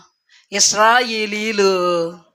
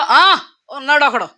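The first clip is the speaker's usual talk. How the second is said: a grudging, raised "there is one"; loud annoyed answer; 4 semitones higher, 5 dB louder than usual. Acted. Ahab grudgingly answers Jehoshaphat, loud and annoyed. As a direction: bark out the answer reluctantly. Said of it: "అంత గట్టిగా మాట్లాడుతున్నారు".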